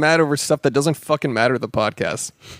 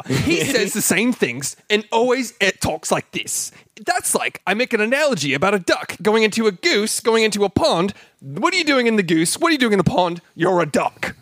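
higher, slowed mock pundit cadence; John Oliver impression; 5 semitones higher than usual. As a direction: lecture like a smug late-night host. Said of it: "That's John Oliver".

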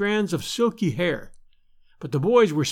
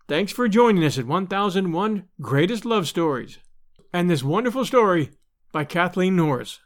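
bright podcast sign-off; host's closing read; outro announcement. Acted. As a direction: thank the listeners warmly.

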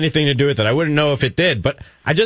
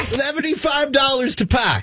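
put-on Boston accent; 9 semitones higher, slower than usual. Repeats the caller's Boston pronunciation.

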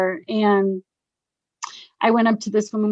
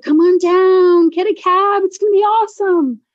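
imitating an excited partying friend; party-girl enticement; 10 semitones higher, 4 dB louder than usual. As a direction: sing out a giddy invitation, voice lifted. Friend retold coaxing her to party.

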